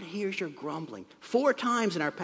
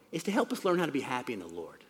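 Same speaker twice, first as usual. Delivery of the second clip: fast, rushed through; said quickly; 4 semitones lower, faster than usual. Shown as a demonstration. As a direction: hurry through it, just a quick aside. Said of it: "I'll just say this quickly".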